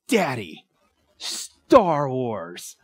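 lightly voiced three-year-old announcing his find; little boy voice. Three-year-old son spotting picture.

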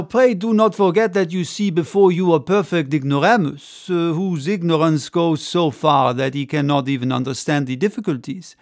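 a confident showman's speech with a hint of French; French orator. Ardan addresses the crowd of spectators, lightly voiced grand orator.

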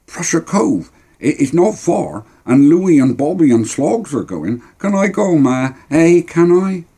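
put-on high, eager boy wheedling his mum; pleading boy. Boy begging Ma to let him go, pleading. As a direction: plead your case in a high child's voice.

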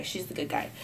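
breathy whisper; whispered aside. Shown as a demonstration. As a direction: drop to a whisper. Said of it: "She's, she's the good guy".

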